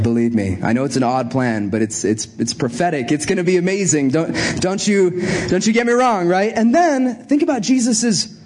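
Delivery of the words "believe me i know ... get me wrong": low, calm reassurance; Jesus calming his followers, lightly voiced; reassuring Jesus. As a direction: soothe the worried disciples in a low voice. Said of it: "He's like".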